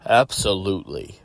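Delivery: understated serious voice. Acted. Voice in Deadpool's head agreeing to chaos, serious voice. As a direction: answer soberly, no lift in pitch. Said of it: "my serious voice says".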